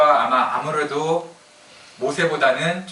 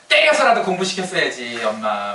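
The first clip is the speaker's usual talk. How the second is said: mock angry reproach. Grown child blaming mother over studies, mock angry. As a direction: act out a grown child's indignant complaint. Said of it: "막 이렇게 막 화를 내요".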